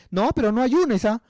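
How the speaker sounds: high-pitched mock objection; dissuading coworker. Coworker telling believer not to fast, mock objecting. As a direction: lightly mimic someone talking a friend out of it. Mimics coworker discouraging fasting.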